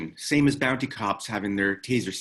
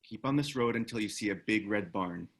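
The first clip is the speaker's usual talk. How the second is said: whispering; 3 semitones lower, 6 dB quieter than usual. Acted. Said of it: "leans over to whisper to her".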